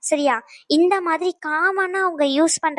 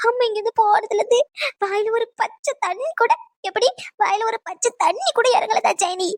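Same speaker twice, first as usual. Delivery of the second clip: melodramatic grandma; 6 semitones higher than usual. Acted. Grandmother greeting her daughter in a hammed-up high wail. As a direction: lay the longing on thick, pitched up.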